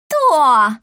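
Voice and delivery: loud, high mocking echo; mocking mimic. A narrator's reading. Matchmaker mimics the angry mother, loud and mocking. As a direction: throw her word back at her. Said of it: "передразнила её сваха".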